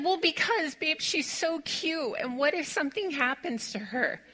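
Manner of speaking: mock-tearful, laughing; laughing self-quote. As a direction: retell your silly worry while cracking up. Quoting herself while laughing.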